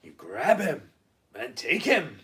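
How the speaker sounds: emphatic two-part command, pause between; film warrior quote. Acted. Quoting film to co-host, mock warrior instruction. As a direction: punch each half like a warrior. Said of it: "It's from Conan the Destroyer".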